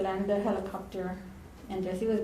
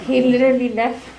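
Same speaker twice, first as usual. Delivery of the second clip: laughing; 3 semitones higher, 9 dB louder than usual. Real, not acted. Laughing while telling it.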